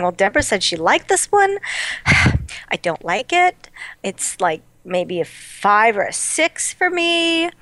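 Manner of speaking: drawn-out, mildly disgruntled grumble. Retold or imitated. Viewer replaying her first unimpressed reaction to the episode, mildly disgruntled. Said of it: "very disgruntled about what they're doing".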